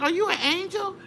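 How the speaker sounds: high, pleading mock-tearful voice; retold tearful question. Traveler asking her rescuer, imitated tearful awe. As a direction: ask it in wonder, as if through tears. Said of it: "through my tears".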